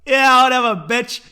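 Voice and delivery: loud, high, laughing brush-off; mock dismissive retort, on the edge of laughter; Sean Connery. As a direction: blurt it out loudly, amused. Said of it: "And Sean goes".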